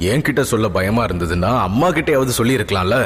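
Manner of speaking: calm. Acted. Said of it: "அமைதியாக".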